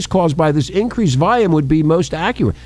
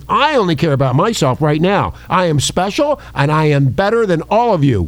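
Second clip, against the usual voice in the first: sneering wrestling villain. Pretend. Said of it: "Richie Randy has spoken".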